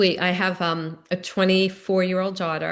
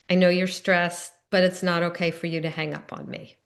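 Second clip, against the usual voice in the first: calm. Retold or imitated. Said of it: "I was able to calmly say".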